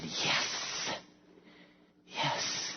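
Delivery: whispered yes; hushed approval. Retold or imitated. Patient affirming Patch, whispered approval.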